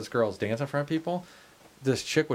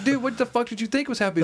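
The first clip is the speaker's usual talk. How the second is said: higher, fast and laughing; teasing a friend about the glitter, laughing; laughing disbelief; 12 semitones higher, faster than usual. Retold or imitated. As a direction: fire it off, cracking up at a friend. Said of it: "And I'm like".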